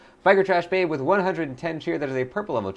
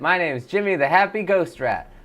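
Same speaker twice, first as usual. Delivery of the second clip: Jimmy the Happy Ghost Rat. Acted. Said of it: "That's Jimmy the Ghost Rat".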